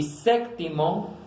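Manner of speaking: "séptimo" slowly, with stress on the first E. Shown as a demonstration. Teacher gives an esdrújula example, slow and stressed. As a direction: lean on the opening vowel of "séptimo". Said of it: "en la E".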